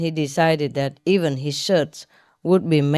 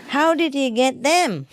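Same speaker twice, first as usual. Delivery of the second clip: laughing; 9 semitones higher than usual. Acted. Joke quote, laughing.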